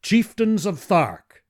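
high, slow, loud call; cried out. Acted. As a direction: call out to the council. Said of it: "I cried".

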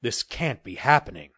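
mild understated exclamation; exclaimed. Acted. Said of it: "he exclaimed".

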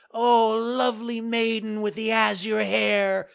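very high, loud pleading call; crying out. Acted. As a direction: call up to her window, desperate. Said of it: "cried Pinocchio".

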